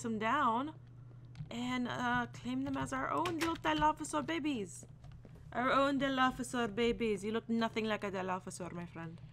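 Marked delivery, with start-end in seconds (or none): 1.5-9.2 slightly higher, playful character voice; silly put-on voice. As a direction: slip into a goofy voice, easing down at the end. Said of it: "why I'm talking like that".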